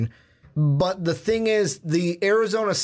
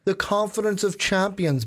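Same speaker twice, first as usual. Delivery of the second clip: a touch of mock-British accent; slightly higher, playful hint of British accent; 5 semitones higher than usual. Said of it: "like, a British accent on it".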